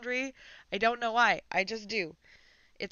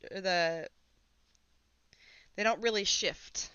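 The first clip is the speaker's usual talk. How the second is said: talking with pins in mouth. Real, not acted. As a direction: speak around pins held in lips. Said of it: "don't put pins in your mouth, but here we are".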